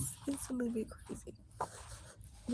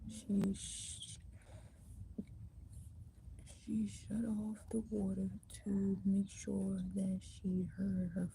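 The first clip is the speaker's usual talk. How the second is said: whispered story reading; 3 dB quieter than usual. A narrator's reading. Reading a book to viewers in a library, whispering. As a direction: read the thriller softly under your breath. Reads novel aloud to viewers.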